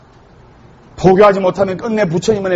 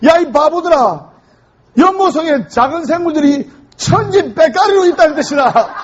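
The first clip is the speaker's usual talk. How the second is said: fed-up teacher; 7 semitones higher than usual. Retold or imitated. Furious teacher yelling at the Seoul kids, mock anger. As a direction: scold the kids, hammed-up fury. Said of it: "화가 머리 끝까지 난".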